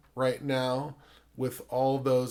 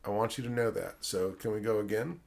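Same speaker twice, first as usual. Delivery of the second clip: retold guilt trip; 2 semitones lower, 6 dB quieter than usual. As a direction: quietly lay the blame on a child. Director guilt-trips crying child actor.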